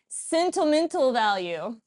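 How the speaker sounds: slow echo, laughing. Real, not acted. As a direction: repeat slowly with a laugh.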